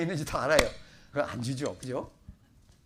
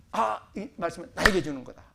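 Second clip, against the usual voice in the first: acted sudden realization, a bit louder; moved realization; 2 semitones higher, 6 dB louder than usual. Believer realizes the verse is meant personally, acted moved exclamation. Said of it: "읽을 때 나타나는 은혜예요".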